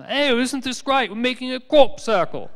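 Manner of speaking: put-on a proud drunk admiring his handiwork; drunk guys. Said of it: "a bunch of drunk guys walking around".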